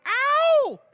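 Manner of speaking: proud shout rising to a high, loud howl; loud shout-out capped with a wild "Ow!"; excited scream. Real, not acted. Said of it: "now you're screaming".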